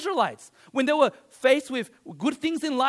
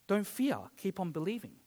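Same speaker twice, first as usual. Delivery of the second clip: calm reassurance; 3 semitones lower, 8 dB quieter than usual. Retold or imitated. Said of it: "But Jesus is like".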